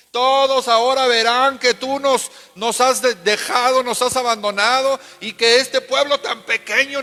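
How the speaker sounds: anguished lament. Acted. Joshua crying out to God, desperate and loud. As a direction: wail at God that all is lost.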